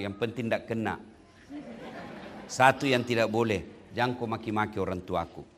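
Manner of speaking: gently plead, keep it low; sincere plea to wife. Retold or imitated. Preacher recalling his vow to his new wife, low and gentle. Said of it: "Saya bilang".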